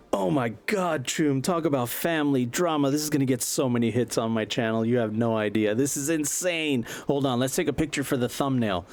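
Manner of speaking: high, giddy streamer gushing; milk the drama for clicks; excited vlogger. Acted. Buzz gushing to the crew about the drama, high and giddy. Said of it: "Buzz is like".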